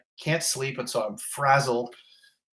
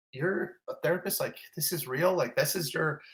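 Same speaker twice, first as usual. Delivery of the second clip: mild retold disbelief, pitched up; incredulous; 4 semitones higher, 4 dB quieter than usual. Patient doubting his therapist's credentials, mildly incredulous. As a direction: question it with understated, baffled doubt.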